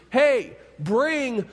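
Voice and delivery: father announcing his son's return to the servants, joyful; joyful announcement. Acted. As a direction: ring out the orders to celebrate. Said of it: "And his dad announces".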